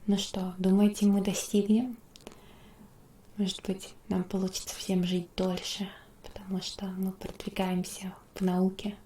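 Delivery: hushed, half-whispered musing. Real, not acted. Asking listeners about living to a future year, whispery. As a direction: muse in a gentle near-whisper. Soft whispery talk throughout.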